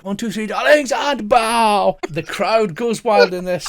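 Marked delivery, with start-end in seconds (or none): 0.0-2.0 theatrical director. Acted. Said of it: "he goes".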